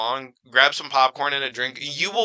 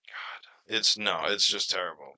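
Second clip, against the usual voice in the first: whispered lament; hushed dismay; 5 semitones lower, 7 dB quieter than usual. Real, not acted. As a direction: breathe it, barely voiced. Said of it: "whispered reply".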